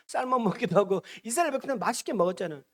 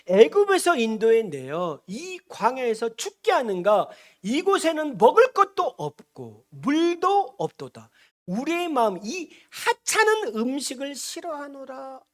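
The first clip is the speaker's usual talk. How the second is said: slow, raised, drawn-out declamation; complaining scripture quote; 4 semitones higher, 3 dB louder, slower than usual. Acted. Preacher reading Israel's complaint against Moses, slow declaiming. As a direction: declaim the people's grievance, stretching the words. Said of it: "뭐라고 원망합니까?".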